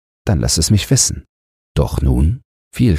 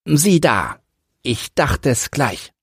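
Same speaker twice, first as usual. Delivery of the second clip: higher, gentle widow's voice; mild and soft; 9 semitones higher than usual. Acted. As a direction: say it mildly and sweetly. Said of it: "mild und weich, sprach".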